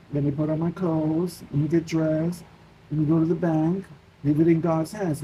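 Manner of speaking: even, step-by-step self-reassurance; imagine calmly getting on with it; staying calm. Retold or imitated. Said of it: "just staying calm and be like".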